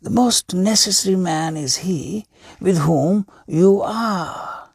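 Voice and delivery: patient sage explaining; wise old hermit. A narrator's reading. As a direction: hermit calmly teaching the king.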